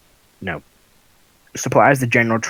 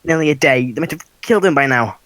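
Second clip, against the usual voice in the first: panicking mother; 3 semitones higher than usual. Acted. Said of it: "She goes".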